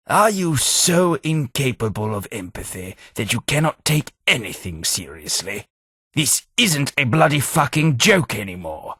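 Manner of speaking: fed-up rebuke that boils over; exasperated scolding. Acted. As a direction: lose your patience with them. Companion scolds player's flippancy.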